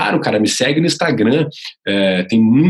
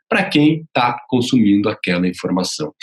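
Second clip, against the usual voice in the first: "tá consumindo aquela informação" in measured, separated chunks; separated syllables. Shown as a demonstration. Coach showing how to draw attention, "consumindo" broken apart. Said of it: "eu separar algumas sílabas".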